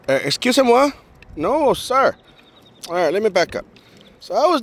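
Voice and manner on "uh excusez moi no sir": mock-offended high "excusez-moi"; a diva brushing off a creep; sassy refusal. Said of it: "and I'm like".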